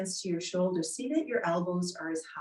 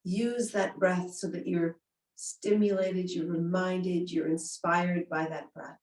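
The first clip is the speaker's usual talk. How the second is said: guided meditation. Acted. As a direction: lull them inward gently.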